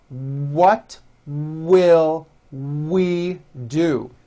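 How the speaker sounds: What will we do? spoken very slowly, each W rounded; slow model. Shown as a demonstration. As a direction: stretch it out for the class to repeat. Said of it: "Say it with me".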